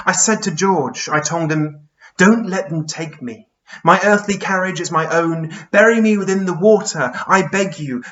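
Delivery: Charles Byrne, pleading. Acted. Dying giant begs his friend George not to let them take him, pleading. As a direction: plead earnestly, leaning on the key words.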